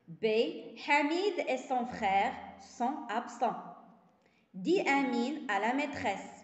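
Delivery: slow, carefully articulated reading for pupils; slow classroom reading. Shown as a demonstration. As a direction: read each sentence slowly to the class. Teacher reads the exercise sentences. (قراءة بطيئة وواضحة للتلاميذ)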